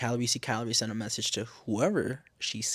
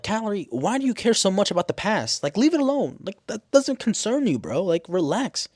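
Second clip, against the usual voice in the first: high, loud exasperated pleading; exasperated protest; 9 semitones higher, 3 dB louder than usual. Acted. Viewer begging Calorie to leave the past alone, exasperated. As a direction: tell a friend off in a high-pitched voice.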